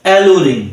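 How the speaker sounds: অ্যালু রিং joined as one word; syllables joined. Shown as a demonstration. Teacher joining the syllables for pupils, অ্যালু রিং clearly enunciated. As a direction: blend অ্যালু and রিং, both clearly sounded. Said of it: "একবারে যখন শব্দটা উচ্চারণ করব".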